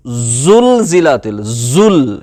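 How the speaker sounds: زلزلت slow, with a firm buzzing z; hard z. Shown as a demonstration. Teacher reads the example زلزلت, z said firmly. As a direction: press زل hard, tongue kept in. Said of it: "یہ سختی سے آپ پڑھیں".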